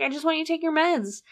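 pleading mom. Retold or imitated. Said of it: "she's like".

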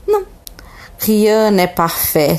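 rien n'est parfait, lent et soupiré; soupirant. Acted. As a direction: laisse échapper un soupir de renard déçu, lentement. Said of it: "soupira le renard". (le renard déçu soupire, lentement)

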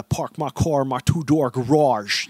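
slow, drawn-out Boston accent imitation; mock Boston accent. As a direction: stretch it out like a caricature Bostonian. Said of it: "and then you got the".

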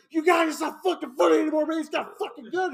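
high, fast panicked protest; mock panic. Retelling the victim begging his friends, mock panic. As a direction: plead with the friends in acted alarm.

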